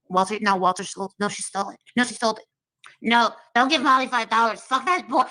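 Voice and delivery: a hint of a catty rival spreading rumours; spiteful gossip in a borrowed voice; Molly impression. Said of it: "How do you do impressions so good?".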